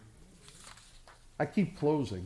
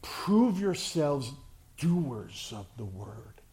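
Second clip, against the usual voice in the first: slow emphatic quote; slower than usual. Acted. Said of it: "James says".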